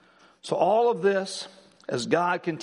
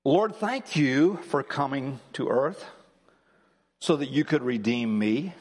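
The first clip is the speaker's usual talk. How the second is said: slow, deliberate reading of a prayer; very slowly; 3 semitones lower than usual. Shown as a demonstration. Pastor to congregation, reading a prayer very slowly. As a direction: read each word slowly and reverently. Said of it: "very slowly read it to you".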